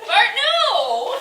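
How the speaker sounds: high laughing no; laughing scold. Real, not acted. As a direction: laugh while stopping the goat. Goat eating notes.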